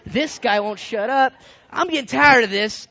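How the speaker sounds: mock fed-up griping that rises at the end; annoyed. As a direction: complain with mounting irritation. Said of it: "I'm getting really annoyed here".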